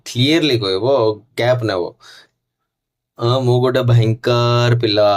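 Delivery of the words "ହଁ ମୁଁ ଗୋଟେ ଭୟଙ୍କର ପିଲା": slow, deliberate demo line; loud, clear demo. Shown as a demonstration. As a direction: say it slow and firm as an example. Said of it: "ଲାଉଡର, ଜୋର ସେ କହିବ".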